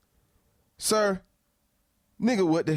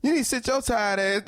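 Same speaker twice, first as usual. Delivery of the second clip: yelling at him. Real, not acted. Yells at the guy in clip.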